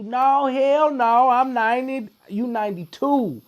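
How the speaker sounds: lightly voiced old father, high and loud; old dad arguing. Guest imitates his old father arguing about his age, high and stubborn. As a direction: insist stubbornly like an elderly dad. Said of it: "You know I'm ninety-three".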